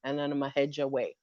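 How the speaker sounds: low, soft, very fast plan; low, fast general laying down orders; rushed orders. Retold or imitated. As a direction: rattle off the plan quickly. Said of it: "He lays down orders".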